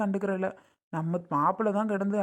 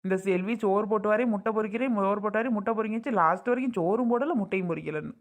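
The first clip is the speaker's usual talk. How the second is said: higher, sing-song mock grumbling of a fussy old man; mocking complaint; 4 semitones higher than usual. Husband mocking father's complaint to his wife, high mock whine. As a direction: lightly mimic his whining complaint, then let it drop. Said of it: "போய் அங்கிட்டு சொல்லுவாரு".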